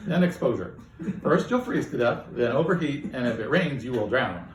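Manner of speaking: lightly voiced AI, enjoying itself; gleeful AI. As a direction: relish every grim prediction. AI gleefully listing deaths.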